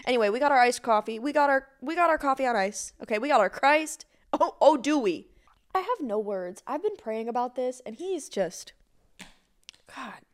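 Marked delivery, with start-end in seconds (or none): 4.3-10.2 soft, fading, choked with emotion; words failing, real tears close; overcome. Real, not acted. Host overwhelmed by answered prayers, softly choked up. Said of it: "Sorry I got a little emo".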